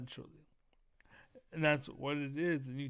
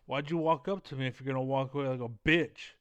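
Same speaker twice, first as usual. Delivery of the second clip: provoking taunt; 6 dB louder, faster than usual. Acted. Provoking a man who walks away.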